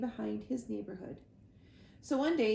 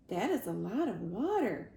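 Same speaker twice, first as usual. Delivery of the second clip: wide-eyed awe. Acted. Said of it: "said the wide-eyed gosling".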